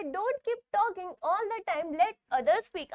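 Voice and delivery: reads the rule slowly, word by word; slow reading aloud; slow textbook reading. Shown as a demonstration. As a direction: dictate it slowly for students. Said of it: "यहाँ पर बोला गया है".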